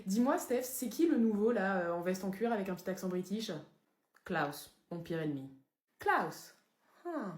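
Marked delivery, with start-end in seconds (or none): 4.2-5.5 low, soft, ominous delivery; name your nemesis darkly and quietly; brooding vampire. Acted. Présente gravement son ennemi.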